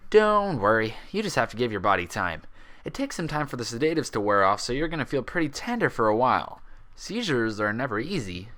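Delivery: easygoing doctor, lightly voiced. Doctor reassures her.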